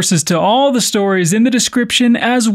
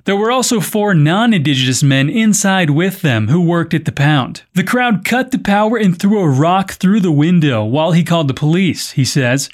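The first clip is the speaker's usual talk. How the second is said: measured podcast news delivery; news script read with clear phrasing. Acted. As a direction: read it out as a news story, evenly projected. Reads the news story.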